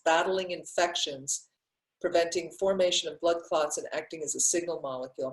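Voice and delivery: rattling through a list; talking fast. Real, not acted. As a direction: hurry through the benefits to move on. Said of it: "I'm talking fast".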